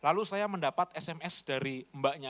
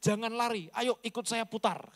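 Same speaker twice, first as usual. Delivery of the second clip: mild retold accusation; 5 semitones higher than usual.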